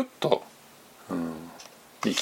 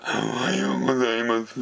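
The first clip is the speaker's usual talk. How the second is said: talking while inhaling; faster than usual. Shown as a demonstration. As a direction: speak on the in-breath. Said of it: "息を吸いながら".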